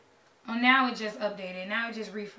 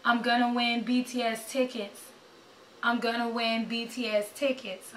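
slow affirmation. Real, not acted. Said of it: "speaking into existence".

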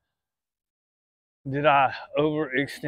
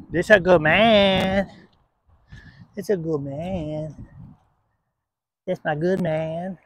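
slow soothing praise; 2 semitones higher, slower than usual. Real, not acted.

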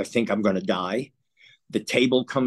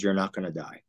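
choked up; 3 semitones lower, 6 dB quieter, faster than usual. Real, not acted. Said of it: "It still affects me here".

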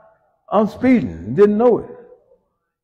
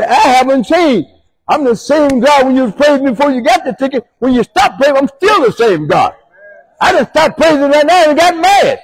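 higher, louder booming divine voice; voice of God; 13 semitones higher, 7 dB louder than usual. Acted. God reminding the angry driver, higher louder voice. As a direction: speak as God rebuking gently. Voicing God speaking to him.

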